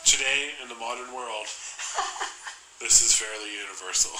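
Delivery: lightly voiced documentary narration; a hint of a nature documentary narrator. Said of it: "my documentary voice".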